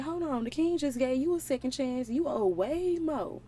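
mild mock outrage; upset servants. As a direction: protest like offended coworkers. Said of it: "they got kinda upset".

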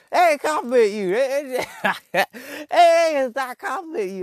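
high, loud laughing protest; cracking up as you insist; laughing disbelief. Real, not acted. Laughing as he tells viewers they aren't compliments.

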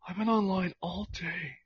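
lightly voiced dorky brother; Kip from Napoleon Dynamite. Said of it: "sounded like Napoleon's brother".

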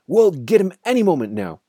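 high, loud, eager shout. A narrator's reading. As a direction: shout it across to the other drivers. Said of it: "the fat Boggis shouted".

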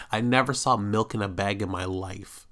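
ordinary delivery

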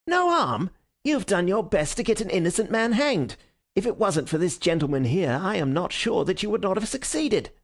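high-pitched, indignant rebuke; scolding, outraged inspector; furious detective. A narrator's reading. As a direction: throw the words back in angry disbelief. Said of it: "furious red face of the angry detective".

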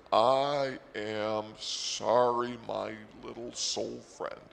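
drawn-out, slow duck apology. Acted. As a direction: stretch the words out, apologizing slowly. High duck loosens up, apologizes.

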